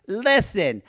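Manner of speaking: imitated bathroom diva; twink in line. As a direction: announce it slowly, dragging out the words. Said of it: "hears behind him this guy say".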